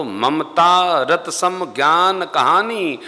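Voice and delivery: slow, drawn-out verse recitation; measured devotional chanting; scripture recitation. Real, not acted. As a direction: recite the verse slowly, stretching the words.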